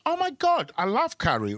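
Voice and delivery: mock gushing Aussie. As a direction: gush like a clueless local. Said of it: "they could go like".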